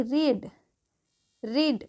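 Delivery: "रीड" with a long ee and silent a; long ee vowel. Shown as a demonstration. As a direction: model "रीड" twice, pausing between. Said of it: "ई जो है उसकी बड़ी मात्रा".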